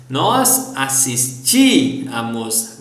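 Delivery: slow "assistíamos" with a long, stressed "tí"; stressed accented í. Shown as a demonstration. Teacher conjugating for students, "assistíamos" with stressed í. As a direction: draw out the "tí" in "assistíamos". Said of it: "we need to stress the second syllable".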